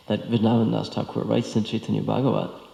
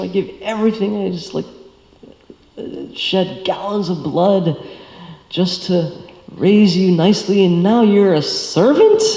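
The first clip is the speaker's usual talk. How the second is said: much higher, louder outraged father's rant; furious dad; 9 semitones higher, 9 dB louder than usual. Retold or imitated. Dad scolding son for signing letter your servant, furious high shout. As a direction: rant like a betrayed father, rising to a shriek. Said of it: "his dad was so furious".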